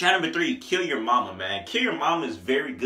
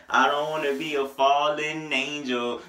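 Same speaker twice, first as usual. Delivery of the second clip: slower, drawn out. Shown as a demonstration.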